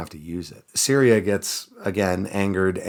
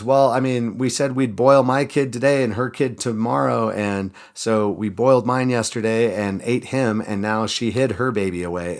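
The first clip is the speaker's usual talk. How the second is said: higher and louder, fading down; indignant mother; 4 semitones higher, 4 dB louder than usual. Retold or imitated. Mother complaining to the king about the broken bargain, indignant. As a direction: complain it's unfair, settling as you go. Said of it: "And she goes".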